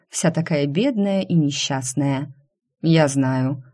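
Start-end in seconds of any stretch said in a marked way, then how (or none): 2.8-3.6 спокойно. Acted. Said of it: "спокойно заметил шеф".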